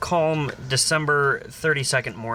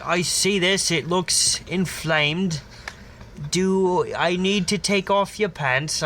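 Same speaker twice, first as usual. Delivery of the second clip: slow, higher mock doctor; examine the injury in a hammed-up doctor voice; 5 semitones higher, slower than usual. Doctor inspecting the patient's swelling, slow hammed-up doctor. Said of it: "And they're like".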